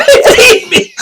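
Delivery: high laughing question. Real, not acted. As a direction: laugh through the words.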